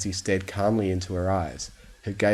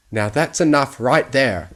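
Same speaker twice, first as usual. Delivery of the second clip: firm, louder warning; stern; 5 semitones higher, 7 dB louder than usual. Acted. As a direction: put a stop to it, firmly. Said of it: "looking down at Fluttershy sternly".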